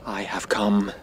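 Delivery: lightly voiced eerie whisper; a hint of the dark envoy's voice; mock Black Emissary. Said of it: "The Black Emissary".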